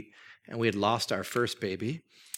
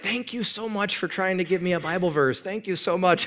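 higher, sugary overpolite thanks; mock gratitude; 6 semitones higher than usual. Pastor fakes sweet gratitude to the youth group. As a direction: gush thanks you don't mean.

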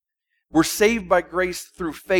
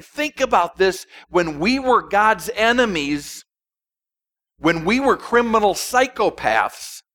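astonished; 4 semitones higher than usual. Retold or imitated. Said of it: "John's amazed".

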